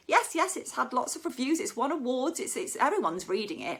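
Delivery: a hammed-up insistent mother; insistent mum. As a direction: mum insisting the book exists. Mum insisting, voiced in a story.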